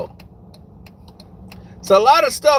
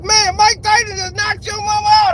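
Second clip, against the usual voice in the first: higher, louder breathless news; excited; 10 semitones higher, 4 dB louder than usual. Retold or imitated. Friends telling him his mama got knocked out, higher and louder. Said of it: "They be like".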